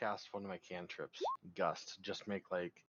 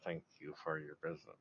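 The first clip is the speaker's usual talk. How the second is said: through gritted teeth; 5 semitones lower than usual. Acted. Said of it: "grit through my teeth".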